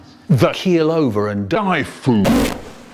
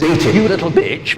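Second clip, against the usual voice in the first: a mock mum's sharp yell, louder; 5 dB louder than usual. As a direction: bark it like a fed-up mother. Mum voiced scolding her child.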